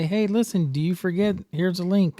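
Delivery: high, chirpy scam pitch; scammy pitch. Retold or imitated. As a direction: coax like a scam text. Voicing scam text.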